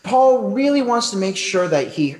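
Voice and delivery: mock prim gasp, drawn out slowly; shocked polite churchgoer. Preacher mocking offended listeners, prim shocked voice. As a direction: play a scandalised prude clutching pearls. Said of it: "polite people who are thinking".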